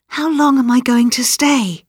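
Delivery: put-on high, anxious little-girl question; anxious child. A narrator's reading. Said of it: "she whispered anxiously".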